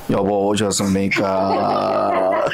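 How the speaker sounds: slow, lightly sweetened voice of a dutiful wife; a mild Kim Hye-su coo; sweet wife voice. Pretend. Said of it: "아주 아리따운 목소리로, 김혜수 목소리로".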